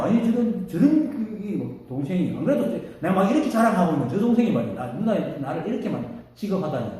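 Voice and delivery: sputtering, offended sister; huffy outburst, stumbling over the first words; mock indignation. Sister insulted at being left unfed by her monk brother, mock indignant. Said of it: "막 화를 내니까".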